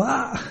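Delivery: high, soft little "aah" of a scream; restrained imitation of a boy's yelp; mock cry. Boy falls in the mountains, restrained mock cry. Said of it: "chilló, ¿no?".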